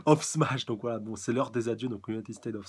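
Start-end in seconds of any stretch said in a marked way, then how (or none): 0.1-0.6 drawn-out, high, loud attack call; attack-name shout. Acted. Manga reader calling out All Might's finishing move, drawn-out shout. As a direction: stretch it out big and loud.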